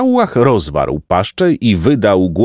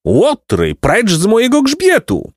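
high, horrified roar at moderate volume; outraged roar; 12 semitones higher than usual. A narrator's reading. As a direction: roar in acted fright and anger. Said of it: "ryknął z przerażenia i gniewu". (ryk przerażenia i gniewu)

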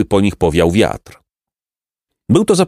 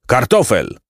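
name called out, moderately raised; first, restrained call of a name; roll-call call; 4 semitones higher than usual. A narrator's reading. Captain calls Kartofel at roll call, restrained call.

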